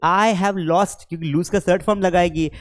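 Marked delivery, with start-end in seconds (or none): 0.0-1.0 slow example. Shown as a demonstration. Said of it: "तो क्या बोलेगी कि".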